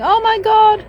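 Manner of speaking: high, loud squeal of a startled little spider; tiny spider's gasp. Pretend. Voicing a spider in the roses, high squeaky shock. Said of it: "little spider in there going".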